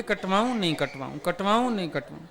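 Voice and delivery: rising on the yes, dropping low and soft on the no; dithering wife. Retold or imitated. Wife before the mirror swinging between cutting and not cutting her hair. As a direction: swing back and forth at the mirror. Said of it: "रोज शीशे के आगे खड़ी हो जाती है".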